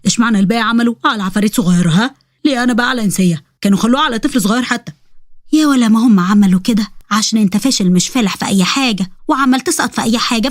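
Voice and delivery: lightly voiced ifrit arguing with a parent; aggrieved young ifrit.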